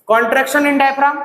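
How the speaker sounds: slow, spaced words; slow dictation. Shown as a demonstration. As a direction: dictate it for notes. (धीरे-धीरे लिखवाना)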